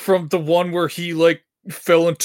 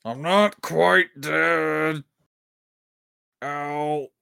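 very slow hammed-up dying gasp; overacted death scene; much slower than usual. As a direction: play a melodramatic last breath. Mock voicing a dying character.

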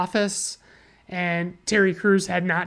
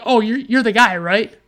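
eager mock recruiters; 2 semitones higher, 5 dB louder than usual. Casting people wrongly sure they found their man, mock eager. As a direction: imitate someone jumping to a conclusion.

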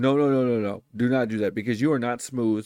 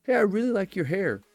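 raised friendly compliment; sample compliment; 5 semitones higher than usual. Shown as a demonstration. Demo for viewers complimenting hair, friendly and raised. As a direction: toss it off lightly while passing. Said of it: "be like".

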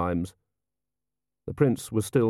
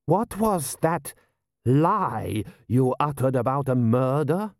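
General Ashal voice; 5 semitones higher, slower than usual. A narrator's reading. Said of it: "he said".

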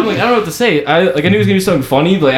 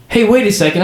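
higher, mock-surprised call-out; feigned recognition; 6 semitones higher than usual. Friend pretending to spot a stranger in line, feigned surprise. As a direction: act suddenly struck by recognizing someone.

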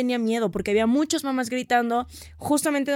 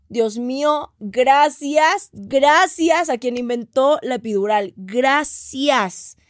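grateful relief; 2 semitones higher, much slower than usual. Retold or imitated. Relief at getting the epidural.

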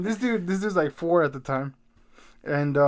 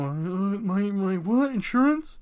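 rising, high and louder, baffled questions; confused old person; 5 semitones higher, 4 dB louder, slower than usual. Retold or imitated. Friend mocking an old person fooled by telemarketers, high and baffled. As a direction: play a befuddled senior on a scam call.

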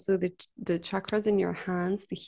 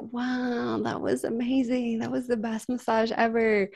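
retold amazed client; 3 semitones higher than usual. Retells client's amazed praise.

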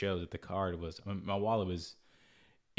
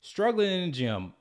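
much higher, louder, slow mocking tone; making fun; 10 semitones higher, 5 dB louder than usual. Mocking the scrawny thief, high, loud and slow. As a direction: drag it out to mock him. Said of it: "now I'm gonna make fun of him".

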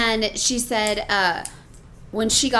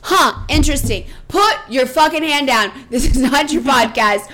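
raised, louder telling-off; angry scolding; 3 semitones higher, 5 dB louder than usual. Retold or imitated. Mother chewing out her son on the phone. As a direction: lay into him and send him out.

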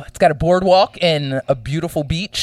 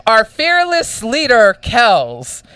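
louder, building proclamation; grand announcement; 2 semitones higher, 5 dB louder than usual. Acted. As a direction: proclaim it like a big award.

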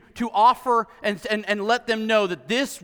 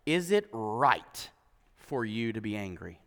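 God's soft question; 11 semitones lower, 9 dB quieter than usual. Acted. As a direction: let God ask it quietly, almost under breath. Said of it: "But the Lord replied".

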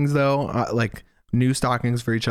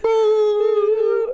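bleeped out; 4 dB louder than usual. Shown as a demonstration.

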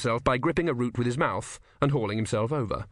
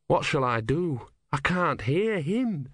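put-on high, earnest young novice; higher, innocent young monk voice; young Brutha voice; 4 semitones higher, slower than usual. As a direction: ask it wide-eyed and high. Brutha speaks.

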